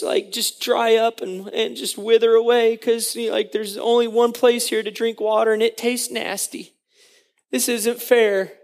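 mildly whiny, aggrieved moaning; whining complaint. Acted. Israelites grumbling to God in the desert, mock whining. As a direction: complain in halting, put-upon bursts. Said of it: "they're whining and they're complaining again".

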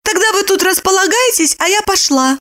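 high brisk woman; high, matter-of-fact leaving; high-voiced woman taking leave; Lipochka's voice. A narrator's reading.

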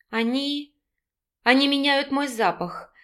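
frightened woman answering her man, faltering; faltering babble. A narrator's reading. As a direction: stammer it out timidly. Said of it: "пролепетала она".

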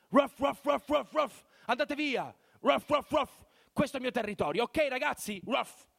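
high barking dog voice, loud. Retold or imitated. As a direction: bark it out like a guard dog. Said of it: "va ad abbaiare".

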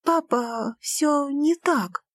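pleading. Acted. Daughter to father, a pleading protest. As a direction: beg him to understand.

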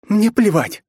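fierce high shout; angry shout. A narrator's reading. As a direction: spit it out in fury. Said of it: "злобно ответила она". (Настя зло кричит Ичиро: злобный крик)

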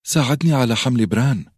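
ساعدني pushed high and loud, falling to بران; frantic plea; urgent. A narrator's reading. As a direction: hurry him to help. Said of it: "قالت بلهفة".

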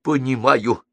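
high-pitched sympathetic agreement; understanding diplomat, nodding along. A narrator's reading. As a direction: agree with feeling, voice lifted high. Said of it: "сочувственно кивал Стажен Фиц".

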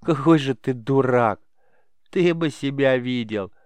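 laughing. Acted. Both boys laughing hard.

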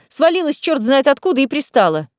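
irritated outburst; flaring up. Acted. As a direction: grumble it angrily. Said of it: "вспылила Лиза".

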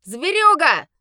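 loud, high spat insult. Acted. A wedding guest spitting an insult at the werewolf. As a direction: spit the word out in disgust. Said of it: "выплюнул кто-то".

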